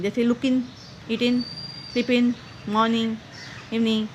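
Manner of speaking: "look in", "eat in", "sleep in" with no g on the -ing endings; clipped -in' endings for looking, eating, sleeping; dropped final g. Shown as a demonstration. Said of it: "जी को silent कर देना है".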